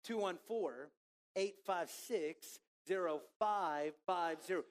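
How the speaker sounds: number read out slowly, digit by digit; slow dictation. Shown as a demonstration. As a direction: spell the number out slow and clear for people to write down. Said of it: "send them in to our anonymous text line".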